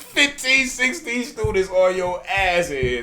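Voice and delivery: loud, threatening warning. Retold or imitated. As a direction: warn her loudly. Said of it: "looking at her and like".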